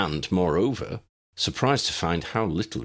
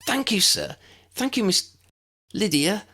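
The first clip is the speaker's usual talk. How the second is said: tearful thanks; 3 dB louder than usual. A narrator's reading. Boy tearful with joy.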